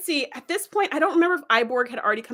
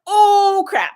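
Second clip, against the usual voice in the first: higher, louder, laughing; laughing oh crap; 8 semitones higher, 8 dB louder than usual. Retold or imitated. Host reacting to Locutus's reveal, a laughing louder outburst. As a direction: let it burst out through a laugh. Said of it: "And you're like".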